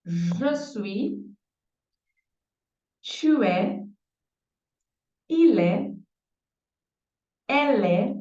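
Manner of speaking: être conjugated slowly, with pauses; slow French conjugation. Shown as a demonstration. Teacher conjugating être for Portuguese students. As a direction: drill each form clearly. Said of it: "vou repetir".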